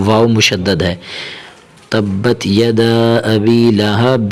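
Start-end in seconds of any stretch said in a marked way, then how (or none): 1.9-4.3 slow, drawn-out recitation; Quran recitation. Shown as a demonstration. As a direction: recite it slowly, stretching the vowels. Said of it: "Quran recitation demo".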